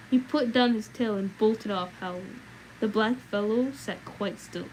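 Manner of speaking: reading a tale aloud to the stream; steady storybook reading voice; story narration. Acted. Streamer reads a book aloud to chat, in storytelling voice.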